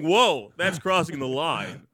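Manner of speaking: mock prudish protest. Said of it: "without you going".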